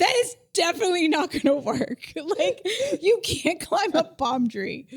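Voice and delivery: mock-firm dismissal; emphatic retort. Acted retort from Josh in story.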